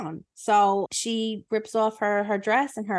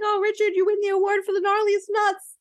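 swooning queen; 12 semitones higher than usual. Acted.

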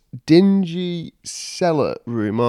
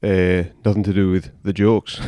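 Tommy McGlory voice; 5 semitones lower than usual. Pretend. Co-host fooling listeners in a lower put-on character voice. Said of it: "Did you think he was Tommy McGlory?".

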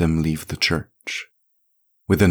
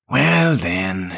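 hammed-up groan on the words; mock groan, light and put on; old priest groaning for show before prayer; theatrical groan; 3 semitones higher than usual. A narrator's reading. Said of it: "he groaned theatrically".

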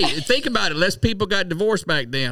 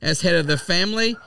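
1940s voice. Acted. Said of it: "That's my nineteen forties voice".

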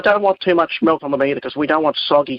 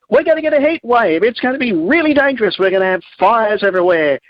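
higher, imitating alarmist forecasters; mock apocalyptic warning; 5 semitones higher than usual. Caller retelling summer weather warnings, mock apocalyptic alarm. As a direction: hype the danger in mock alarm. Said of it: "we get all that apocalyptic stuff".

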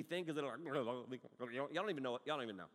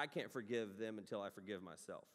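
mocking quote; 8 semitones lower, 6 dB quieter than usual. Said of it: "You're an idiot".

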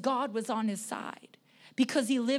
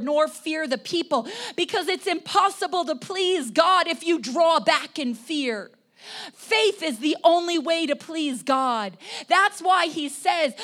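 raised, insistent preacher's voice; emphatic preaching; 5 semitones higher, 6 dB louder than usual. Real, not acted. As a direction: press the point from the pulpit. Preaches at full force.

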